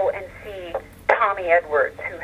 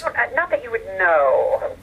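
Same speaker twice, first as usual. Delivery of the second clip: slow, drawn-out coy denial; coy dodge. Real, not acted. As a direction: draw it out, keeping a secret. Coyly dodging a question on past lovers.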